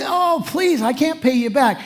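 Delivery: a pitch leap up on please, then settling; mock pleading. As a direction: beg like a servant who can't pay. Servant begging the king.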